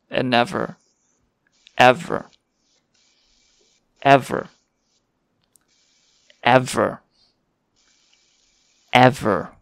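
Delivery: repeating like a stuck record; skipping record. Pretend. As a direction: stutter the word like a broken record. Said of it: "You broken or something?".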